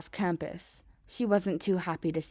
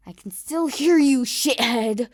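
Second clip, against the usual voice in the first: loud, high furious shout; angry yell; 6 semitones higher, 12 dB louder, slower than usual. Acted. Kacchan yelling through the door at Deku, furious shout. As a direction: bellow the insult through the door.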